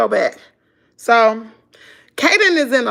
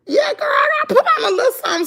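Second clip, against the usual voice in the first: laughing; 4 dB louder, much faster than usual. Real, not acted. Laughing reply about wearing makeup.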